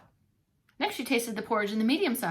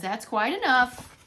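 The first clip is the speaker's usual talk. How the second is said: scolding mother; 3 dB louder, slower than usual. Acted. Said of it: "said Mama Bear".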